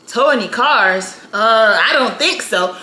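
slow, lightly voiced crotchety clerk; grumpy old man. Old clerk answering about towed cars, mildly grumpy. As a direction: take your time, unbothered and grudging. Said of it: "he's old and grumpy".

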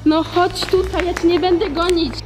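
ordinary delivery

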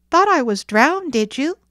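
loftily amused, high and loud; lofty. A narrator's reading. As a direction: toss it off with self-important swagger. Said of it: "said Johnny Blossom loftily".

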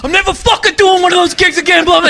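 retold yelling. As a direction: imitate an exasperated protest without real volume. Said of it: "I'd be yelling at him".

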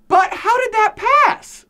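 mock disbelief. Rhetorical question to students.

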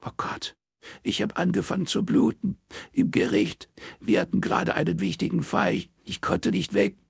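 high, halting crying voice; tearful stammer. A narrator's reading. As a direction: stammer it out through tears. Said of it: "stammelte Ilse".

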